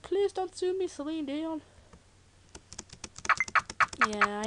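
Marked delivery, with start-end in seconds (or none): 0.0-1.6 pleading joke. Retold or imitated. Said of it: "I said".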